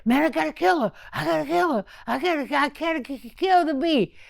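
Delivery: imitating a worked-up man; stuttering mock rage; mock angry threats. Retells bleeding man's furious threats.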